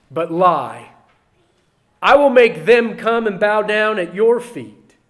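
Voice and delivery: loud, forceful preaching read of the verse; preaching scripture. Acted. Preacher reading Revelation to his church, forceful and loud.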